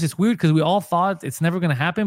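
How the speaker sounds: ordinary delivery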